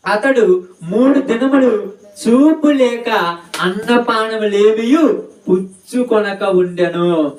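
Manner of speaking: slow, measured reading of the verse; scripture reading. Acted. Preacher reading the verse to the children, slow and solemn. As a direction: read the Bible verse slowly.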